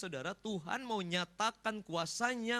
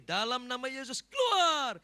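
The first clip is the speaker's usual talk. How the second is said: high, loud command to cast out; exorcist's shouted command; commanding exorcism; 6 semitones higher, 7 dB louder than usual. Acted. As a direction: order the demon out, rising to a shout. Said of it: "kita cuma bilang gini".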